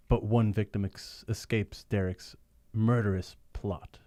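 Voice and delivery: slow ominous narrator voice; dramatic narration. Acted. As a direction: read it like an old radio narrator. Reads narration box.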